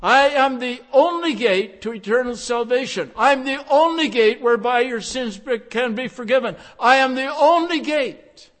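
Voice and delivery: ringing pulpit voice; fervent preaching. Acted. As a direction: proclaim it, leaning on "only". Fervent quotation of Jesus.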